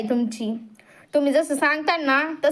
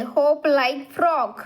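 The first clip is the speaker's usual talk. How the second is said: very slow, word by word; slow reading; much slower than usual. Shown as a demonstration. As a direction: read "Hop like frog." out slowly for kids. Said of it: "Hop like frog म्हणजे काय?". (हळू, स्पष्ट वाचन)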